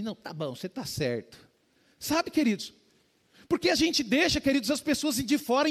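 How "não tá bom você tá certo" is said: mãe murcha cedendo baixinho; murcha, resignada. Retold or imitated. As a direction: ceder sem força, mais baixo. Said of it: "minha mãe ficou murcha assim". (mãe cede murcha, em voz baixa)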